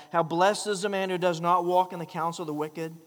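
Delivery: BLESSED rung out loud, the verse declaimed; loud proclaimed reading. Acted. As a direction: proclaim it like a herald. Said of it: "that word blessed is a great word".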